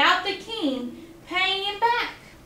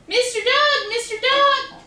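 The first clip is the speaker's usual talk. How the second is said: high, louder call to get attention; 10 semitones higher, 4 dB louder than usual. Acted. Quackling calling out to Mister Dog. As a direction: call him twice across the field.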